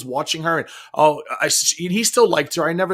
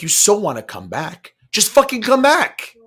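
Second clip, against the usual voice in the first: mocking taunt; 5 semitones higher, 4 dB louder than usual. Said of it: "I'm like".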